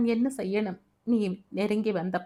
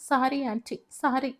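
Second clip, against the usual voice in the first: a touch of sobbing, pitched higher on sorry ஆன்ட்டி; sobbing apology; 5 semitones higher than usual. Acted. Sunil apologising to the grieving aunt, in a higher, sobbing voice. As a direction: choke out sorry, half in tears. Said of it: "என்று கேவினான்".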